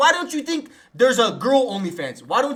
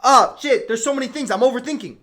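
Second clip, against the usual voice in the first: mildly acted panic, higher and louder; acted terrified; 3 semitones higher, 5 dB louder than usual. Storyteller voicing the kid at the dark bridge, mock terrified. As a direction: play the overthinking kid getting flustered. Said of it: "he was scared that he would take a misstep".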